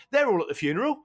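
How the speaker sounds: building to an exasperated, baffled protest; mounting incredulity. Real, not acted. Podcast guest rants to co-hosts about the film's funeral scene, increasingly incredulous.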